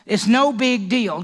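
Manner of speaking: hammed-up scoffing shrug; mock careless Amnon. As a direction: brush it off like it's nothing. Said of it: "Do you think Amnon says".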